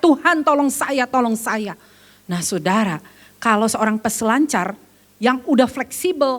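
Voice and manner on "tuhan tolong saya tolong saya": ordinary delivery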